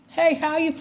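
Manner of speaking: high, sugary fake hello; fake friendly greeting. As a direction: greet them sweetly while they stink. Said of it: "I'll be like".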